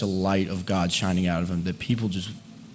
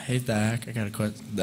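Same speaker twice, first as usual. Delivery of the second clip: softer, timid and hesitant; mumbled meek ask; 5 dB quieter than usual. Shown as a demonstration. Girls asking Zach, meek quiet version. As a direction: mumble the question shyly. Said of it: "they didn't talk like this".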